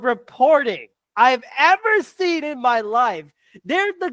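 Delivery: high-pitched, exasperated tirade; proper rant. Real, not acted. Fan berating a radio station's reporting, ranting. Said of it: "You are doing a proper rant".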